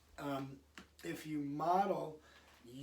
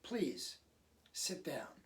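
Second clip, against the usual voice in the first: calm simple request; 4 dB quieter, slower than usual. Shown as a demonstration. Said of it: "it's as simple as".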